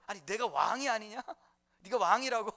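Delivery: mildly startled question, amused; mock surprise. Preacher retells Pilate's startled reply, in mild mock surprise. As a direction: play up a little disbelief, laughing between questions. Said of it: "빌라도가 깜짝 놀랐어요".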